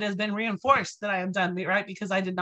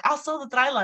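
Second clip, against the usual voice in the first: higher-pitched eager offer; excited dad; 5 semitones higher than usual. Retold or imitated. Dad offering to fund daughter's trip, excited. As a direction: lightly voice a dad carried away by excitement. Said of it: "he was so excited".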